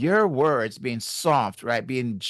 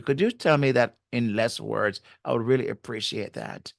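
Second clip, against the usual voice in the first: gentle tone. Shown as a demonstration. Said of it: "saying it a different way".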